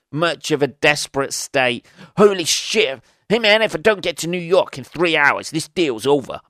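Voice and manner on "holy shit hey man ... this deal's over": a hammed-up New York businessman, pushy; mock New York dealmaker in a rush; dodgy New York accent. Impatient businessman to caller, in a dodgy New York accent. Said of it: "Dodgy New York accent there".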